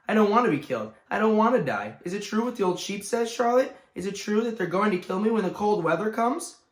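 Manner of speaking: high, loud frightened wailing; panicked plea. Acted. Wilbur pleading with Charlotte in terror. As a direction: plead desperately, near tears.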